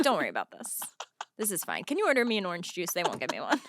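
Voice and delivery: low, hushed conspiratorial voice; mock drunk seatmate. Drunk man on plane hiding his nips, low and hushed. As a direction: play it low like a sneaky drunk.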